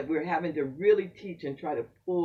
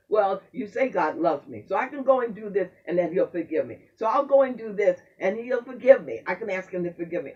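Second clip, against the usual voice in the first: mock young person. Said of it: "our young people fall back on".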